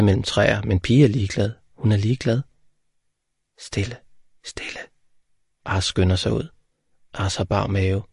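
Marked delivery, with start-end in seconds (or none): 3.6-4.0 hushed. A narrator's reading. Hushing in the dark garden. 4.4-4.8 breathed out almost silently; whispered. A narrator's reading. Hushing fades to a breath.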